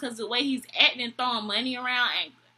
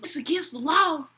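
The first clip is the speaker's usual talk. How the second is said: higher-pitched mock disbelief, questioning; incredulous echo; 4 semitones higher than usual. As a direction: imitate someone balking at a rule. Drunk date echoes manager in disbelief.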